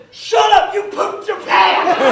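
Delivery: loud, high-pitched retort; exasperated comic outburst, last words drawn out; mock angry shout. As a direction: yell back at the kid, hammed-up. Dad snaps back at daughter.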